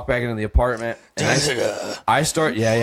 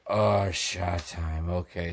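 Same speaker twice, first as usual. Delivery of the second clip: slow sick croak; 3 semitones lower, 5 dB quieter, much slower than usual. Retold or imitated. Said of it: "And I'm like".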